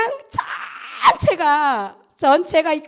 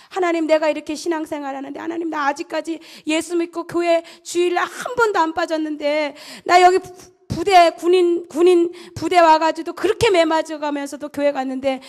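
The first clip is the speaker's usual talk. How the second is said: rising, louder desperate plea; pleading prayer; 3 semitones higher, 3 dB louder than usual. Retold or imitated. Soldier pleads with God through the night, rising desperation. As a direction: beg God, the words spilling out.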